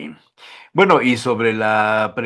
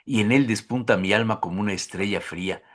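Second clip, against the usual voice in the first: low, soft, solemn verse reading; poem recitation; 6 semitones lower, 3 dB quieter than usual. Acted. Host reads a Neruda love poem to guest, solemn recitation. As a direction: recite it gravely, sinking lower and quieter.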